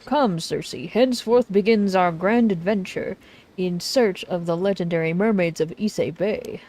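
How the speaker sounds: lightly voiced theatrical adventurer; a hint of pompous storybook hero; grandiose author. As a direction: announce the quest with a flourish.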